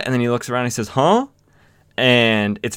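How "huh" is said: high, louder surprised grunt; mock startled gasp; startled huh. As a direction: caught off guard in the dark. Boss startled, looks around.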